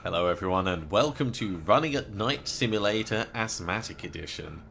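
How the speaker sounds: hammed-up announcer welcome; sports announcer. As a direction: introduce the champion like a host. Mock sports announcer intro.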